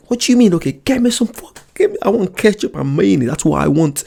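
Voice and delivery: demanding the sauce in mock outrage; indignant. Retold demand to waiter.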